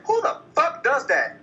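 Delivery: high pitched, laughing through the words; can barely get it out for laughing. Real, not acted. Laughing at absurd plot.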